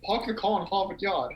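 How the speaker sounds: broad Boston accent, R's dropped. Shown as a demonstration. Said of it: "there's a lot less R's".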